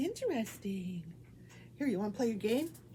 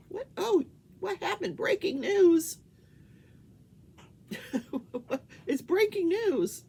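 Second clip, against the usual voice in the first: mock news alarm; 9 semitones higher, 6 dB louder than usual. Real, not acted. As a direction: announce it with mock drama. TV news interrupts pet's game.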